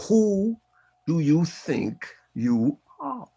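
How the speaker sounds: Alan Watts impression. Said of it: "had this beautiful British voice".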